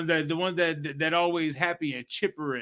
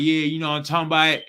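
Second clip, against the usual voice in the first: slang talk; 4 dB louder, faster than usual. Retold or imitated. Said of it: "you want to talk about like".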